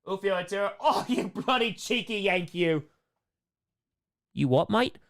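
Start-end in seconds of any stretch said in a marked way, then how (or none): 0.8-2.8 hammed-up cheeky British accent; mock British accent. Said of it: "hear a terrible British accent". 4.3-5.0 mock British accent. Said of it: "hear a terrible British accent".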